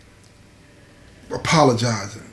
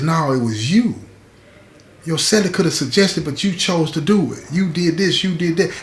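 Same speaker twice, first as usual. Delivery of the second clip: higher-pitched accusation without real shouting; mock a woman's mild yelled accusation, stressing each charge; retold yelling; 4 semitones higher than usual. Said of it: "she's yelling at him".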